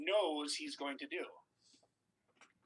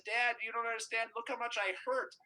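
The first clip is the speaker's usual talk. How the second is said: mock-pleading, higher-pitched child; imitating distraught son; 5 semitones higher than usual. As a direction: plead like a hurt kid falling to pieces. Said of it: "he's falling to pieces".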